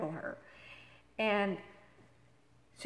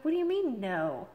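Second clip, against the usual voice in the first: high, louder retort dropping on the last word; indignant disbelief; 4 semitones higher, 5 dB louder than usual. Retold or imitated. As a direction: throw the refusal back, incredulous. Retold argument with phone agent.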